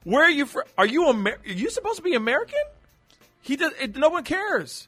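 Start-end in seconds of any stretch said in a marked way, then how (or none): 0.0-2.6 high, loud baffled questioning; acted puzzlement, pitch climbing; mock incredulous. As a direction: question it in hammed-up disbelief. Acting out the question nobody asks.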